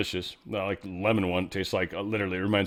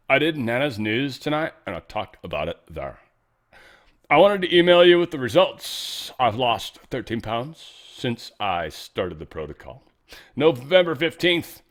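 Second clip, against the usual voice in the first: put-on gushing Valley Girl, rising to a squeal; 3 semitones higher, 6 dB louder than usual. Reading Nana's email in a growing Valley Girl gush. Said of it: "I'm gonna stop doing that".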